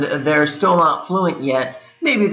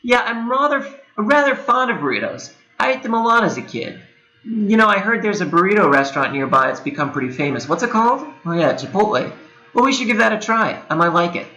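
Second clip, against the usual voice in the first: higher, breezy conversational voice; casual natural speaker; 6 semitones higher, faster than usual. Shown as a demonstration. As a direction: chat it out like a relaxed friend. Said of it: "my attempt at a totally natural way".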